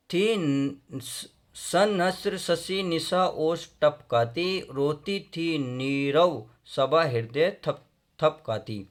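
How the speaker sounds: very slow, drawn-out verse; poem recitation. Acted. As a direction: recite haltingly, stretching each word. Recites verse, stumbling at start. (बहुत धीमा कविता पाठ)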